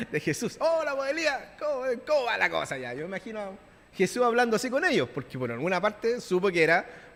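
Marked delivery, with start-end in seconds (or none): 0.1-0.6 laughing. Real, not acted. Laughs at his own joke. 0.6-2.9 playful greeting. Pretend. Preacher voices Jesus greeting Elijah.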